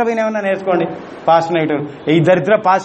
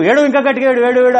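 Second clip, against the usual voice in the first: mock taunting parent; 5 semitones higher than usual. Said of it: "అని".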